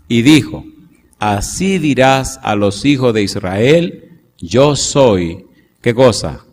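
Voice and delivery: slow, measured Bible reading; scripture reading. Acted. Preacher reading Exodus slowly to the congregation. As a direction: read the verses deliberately.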